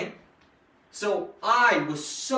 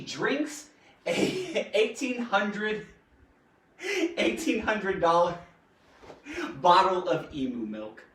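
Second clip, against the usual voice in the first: reading aloud through real giggles; struggling not to laugh while reading; giggly. Real, not acted. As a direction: break into giggles mid-sentence, then push on. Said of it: "Sorry, I'm all giggly".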